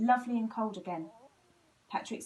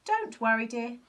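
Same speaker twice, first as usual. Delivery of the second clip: soothing; 3 semitones higher, 7 dB louder than usual. A narrator's reading. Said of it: "soothed his mum".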